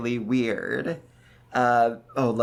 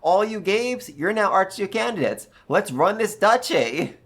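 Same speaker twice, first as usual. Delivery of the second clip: higher, eager rallying voice; rally the Archnobles like a giddy new ruler; excited new Archduke; 6 semitones higher than usual. Pretend. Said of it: "be like".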